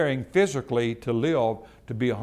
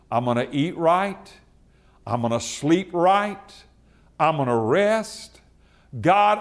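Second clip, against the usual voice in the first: slower prayer; 4 semitones higher than usual. Shown as a demonstration. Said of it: "run that by you again, slower".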